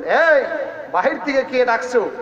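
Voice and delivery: a hammed-up, suspicious shout; wife calling out. Wife challenges the stranger at the door, mock shout. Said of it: "স্ত্রী ডাক দিয়ে বললেন".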